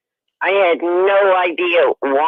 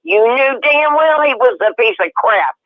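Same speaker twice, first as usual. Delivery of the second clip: furious; 4 semitones higher than usual. Retold or imitated. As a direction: hurl it at her parents, incensed. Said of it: "I was so mad".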